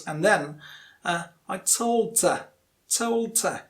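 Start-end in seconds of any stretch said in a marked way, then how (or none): 1.5-3.6 "her" reduced to a weak "er"; weak form of HER. Shown as a demonstration. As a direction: stress "told", drop the h of "her". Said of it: "you use the weak form".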